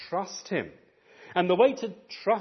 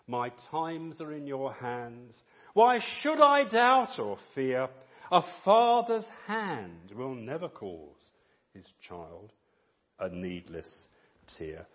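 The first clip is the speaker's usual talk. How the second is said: recited hymn; slower than usual. Shown as a demonstration. Preacher reciting a hymn to the congregation, slow. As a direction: read the hymn lines gently and slowly. Quoting hymn words slowly.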